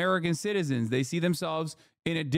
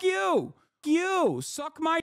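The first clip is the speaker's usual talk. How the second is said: mock angry outburst; 13 semitones higher, much slower than usual. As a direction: blurt it like a fed-up voter exploding. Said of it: "turn around and be like".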